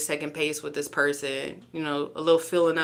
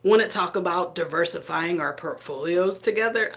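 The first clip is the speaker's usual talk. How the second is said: mock-smooth line said through laughter; a joking pickup line that breaks into a laugh. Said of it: "What do Capricorns say?".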